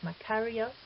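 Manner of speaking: Makarios with stress on KA, ma-KA-rios; stress on antepenult. Shown as a demonstration. Teacher showing the Greek acute accent, Makarios stressed on the antepenult. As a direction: stress the third-last syllable of Makarios. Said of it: "we see the accent on the antepenult".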